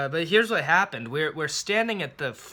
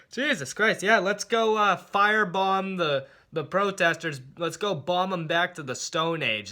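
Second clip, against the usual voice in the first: sarcastic mock enthusiasm; 3 semitones higher than usual. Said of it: "I'm like".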